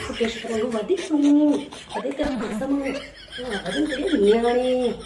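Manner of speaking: a brash rural mother picking a fight; scolding village mother. Acted. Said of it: "ਸਾਡੀ ਪੇਂਡੂ ਮਾਂ ਵੀ".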